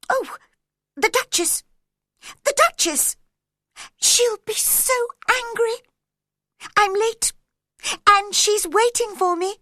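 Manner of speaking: very high, loud, frantic rabbit voice; flustered rabbit fretting about the Duchess, high and loud; panicking White Rabbit. Acted. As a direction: squeal in a panic about being late. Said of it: "It was the White Rabbit again".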